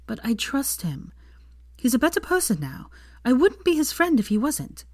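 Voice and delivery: Hermione, tired but firm; young woman voice. Acted.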